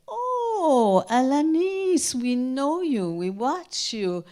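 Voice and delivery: high, loud delighted welcome; woman at the door excitedly recognizing her; excited greeting. Retold or imitated. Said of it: "and she said".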